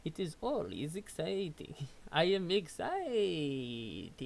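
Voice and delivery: odd formal robot-like voice; stiff, over-enunciated troll; strange troll voice. Acted. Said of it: "I do not know what voice that is".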